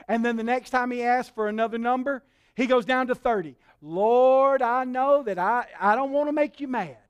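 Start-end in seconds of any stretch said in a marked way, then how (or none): 3.8-7.0 stretched-out mock pleading; laying it on thick. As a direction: draw out "Lord", then plead carefully. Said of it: "He was laying it on thick".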